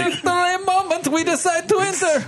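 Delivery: high, laughing put-on Arab accent. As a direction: giggle through a hammy Arab accent. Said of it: "Sounds like Welsh".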